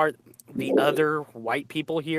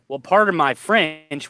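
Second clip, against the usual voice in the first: polite apology; 5 dB louder, slower than usual. Retold or imitated. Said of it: "we'll even say".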